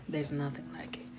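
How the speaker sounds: soft breathy whisper. Real, not acted. Marveling at her husband's teeth sucking, whispered. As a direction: whisper it in awe.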